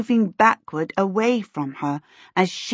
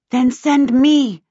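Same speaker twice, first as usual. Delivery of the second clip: eager, louder, high plea; urgent; 7 semitones higher, 7 dB louder, slower than usual. A narrator's reading. Charmaine urging Sim to send her, loud and urgent. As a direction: push to be sent. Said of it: "jigging with impatience".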